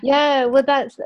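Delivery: laughing warmly through a reply; kind gentle laugh. Real, not acted. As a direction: answer while still chuckling. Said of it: "it's really healing just to laugh".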